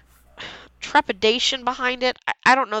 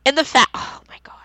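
quick breathless whisper of delight; excited whisper; 4 semitones higher, faster than usual. Real, not acted. Podcaster to co-host, overexcited about ghosts, quick whisper. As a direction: whisper it fast, too thrilled to finish.

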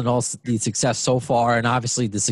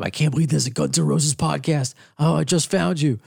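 lightly voiced excited listener; a hint of a surprised fan; fan impression; 3 semitones higher than usual. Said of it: "that's my general impression of a listener".

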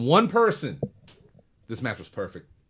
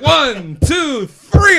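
referee count rising higher and louder; 11 semitones higher, 10 dB louder, much slower than usual. Retold or imitated. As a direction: count it out, building.

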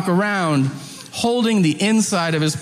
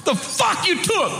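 high, hammed-up inmate demand; prisoner impression; 13 semitones higher than usual. Prisoner questioning a small kid, high mock demand. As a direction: imitate a prisoner grilling a kid, pitched up. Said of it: "And he goes".

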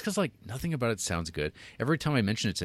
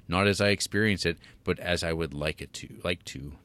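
lightly put-on WASP accent, reading a quote aloud; waspy voice; 2 semitones lower than usual. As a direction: read it out with a mild waspy affectation. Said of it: "read it in my most waspy of voices".

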